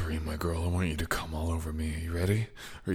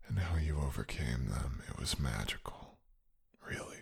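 tender; 3 semitones lower, 5 dB quieter than usual. Acted. Tender praise, softer and lower.

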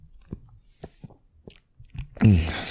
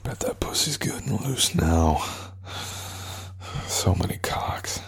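whisper. Acted. Whispered degrading taunt.

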